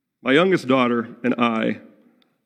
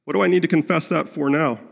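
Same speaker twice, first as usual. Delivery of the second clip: dismissive excuse; 5 semitones higher, faster than usual. Retold or imitated. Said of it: "I've even said".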